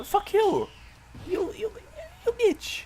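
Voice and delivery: high, loud screeching curse at the enemy; furious shout. Real, not acted. Gamer screaming at the enemy who killed him, furious shout. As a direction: yell it in pure outrage.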